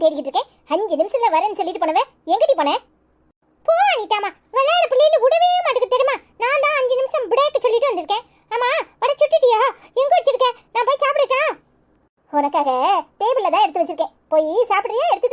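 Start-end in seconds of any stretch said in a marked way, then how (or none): 3.7-11.4 put-on high-pitched little kid voice; high, playful kiddie voice; playful child. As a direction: tease like a cheeky small child. Child chats with the woman.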